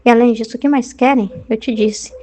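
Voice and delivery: measured, even reading of a mystic's text; devotional reading. Acted. Preacher reading a mystic's dialogue with Jesus, even devotional reading. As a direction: read the sacred text steadily.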